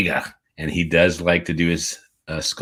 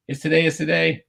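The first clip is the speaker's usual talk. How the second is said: excited; 12 semitones higher, 4 dB louder than usual. Real, not acted.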